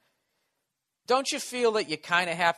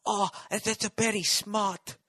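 slow, higher mock Asian accent; hacky Asian accent; 5 semitones higher, slower than usual. Comedian voicing someone behind a fence, hacky Asian accent. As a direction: put on a crude caricature Asian accent. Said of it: "Sorry for my hacky fucking Asian offensive, uh, accent there".

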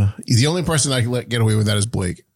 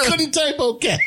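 laughing; 13 semitones higher, slower than usual. Real, not acted. Laughing at John's text.

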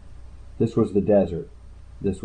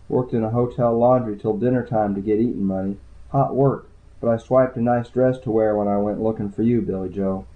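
lightly raised voice for the tired, shy woman; woman's voice; 2 semitones higher than usual. Acted. Woman's quoted lines in story.

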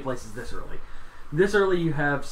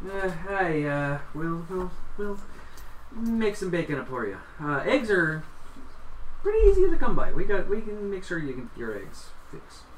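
cheerful dragonborn waitress; 4 semitones higher than usual. Acted. NPC voice continues.

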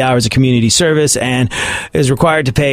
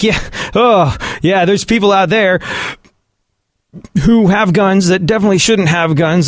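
mock mayor; 4 semitones higher than usual. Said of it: "He was like".

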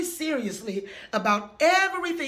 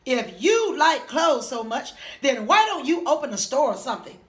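disgusted mocking; 4 dB louder than usual. Mole rats mocking Wilbur's clothes.

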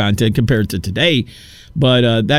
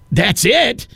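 higher, rising incredulous question; acted-out appalled astonishment; shocked disbelief; 6 semitones higher than usual. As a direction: question it as if you can't believe that's all. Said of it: "That's how I felt".

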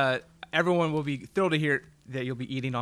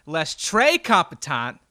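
fake French accent; 2 semitones higher, 6 dB louder, much slower than usual. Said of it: "That's not French".

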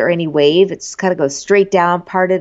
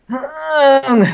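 John Paul Jones groan; 6 semitones higher than usual. Retold or imitated. First sound after commercial, imitated sick groan. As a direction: imitate a drawn-out queasy moan. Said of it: "John Paul Jones going".

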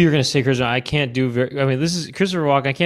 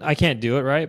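normal talking voice

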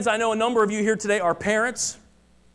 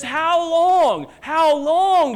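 higher, louder urgent calling; urgent plea; 7 semitones higher, 5 dB louder, much slower than usual. Acted. Lady Wisdom pleading with three groups, higher and louder urgent cry. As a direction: cry it out with all the urgency she can muster. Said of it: "With as much urgency as she can muster".

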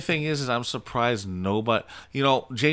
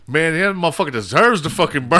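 laughing mock scorn; 4 semitones higher, 6 dB louder than usual. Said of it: "they heard me".

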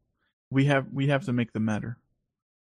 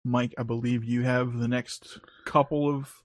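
whisper; 3 semitones lower, 6 dB quieter than usual. Real, not acted. Cueing next segment.

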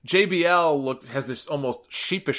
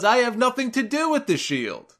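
mock innocence; 10 semitones higher than usual. Punk feigning innocence, wink wink.

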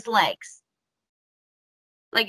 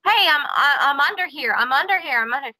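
slightly raised, hurried call for help; retold shouting; 3 semitones higher, faster than usual. Host retelling the trapped man's first shouts, mild mock shout. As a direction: call out from underneath, held back. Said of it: "he started shouting".

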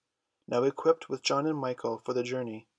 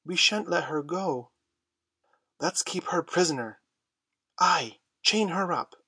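rising threats, higher and louder; threatening; 5 semitones higher, 3 dB louder than usual. A narrator's reading. Lost Boys threatening Wendy, growing louder. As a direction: gang up on her with mounting menace. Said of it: "advanced upon her threateningly".

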